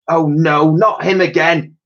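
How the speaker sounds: put-on exasperated old lady. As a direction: sigh it out like a fed-up granny. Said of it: "she remarked".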